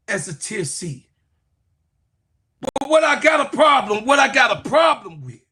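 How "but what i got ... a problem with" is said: angry shout. Real, not acted. Heated rant at a rival analyst.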